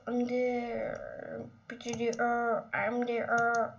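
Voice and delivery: soft whispered MDR; breathy soft whisper. Real, not acted. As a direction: whisper it to yourself. Whispered aside laughing.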